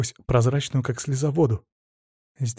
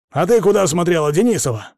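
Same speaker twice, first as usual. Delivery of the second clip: sudden louder accusing yell; 4 semitones higher, 4 dB louder than usual. Acted. Husband suddenly yelling at Maryana, accusing. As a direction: round on her and bellow. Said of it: "и вдруг заорал".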